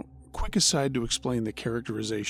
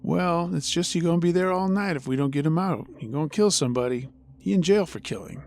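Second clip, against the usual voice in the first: country vernacular; 4 semitones higher, 3 dB louder than usual. Retold or imitated. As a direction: speak like a rural local, matter-of-fact. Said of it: "a country vernacular".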